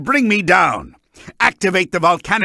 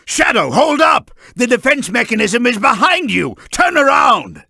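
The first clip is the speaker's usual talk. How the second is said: higher, urgent call; urgent warning shout; 3 semitones higher than usual. Acted. Calling out to Shadow about the mechanism behind. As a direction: shout to stop him in time.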